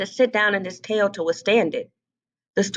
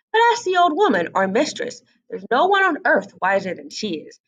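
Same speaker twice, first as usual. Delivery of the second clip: bossy hen. Acted. Hen scolds duckling.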